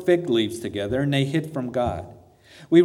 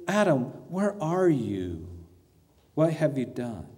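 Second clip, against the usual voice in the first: heartbroken father; 4 dB quieter than usual. Acted. Preacher as God questioning fallen Adam, softly heartbroken. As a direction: plead quietly, sinking into hurt. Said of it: "voice of a heartbroken father".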